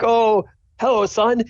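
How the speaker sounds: high-pitched hearty dad voice; dad greeting son. Acted. Dad leans out to his son, greeting voice. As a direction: greet him brightly in a high voice. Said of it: "and he's like".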